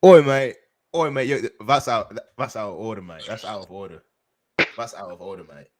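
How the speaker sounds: playful put-on British voice, light; hamming up a roadman London accent; mock London accent. Joking to friends that he's British, mock London accent. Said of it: "fish and chips type beat sounding ass nigga".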